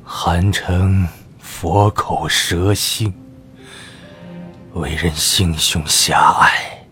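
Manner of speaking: low bitter lament. Acted. Old minister laments in low voice.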